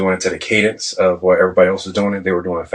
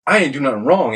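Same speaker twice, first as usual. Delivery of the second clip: higher-pitched defensive pleading; retold protest; 6 semitones higher than usual. Sailor to senior chief who is on his case, retold protest. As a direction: push back as if wrongly accused.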